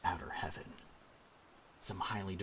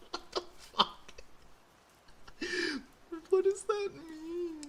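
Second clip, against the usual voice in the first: incredulous; 5 dB louder, slower than usual. Real, not acted. Baffled reaction to text.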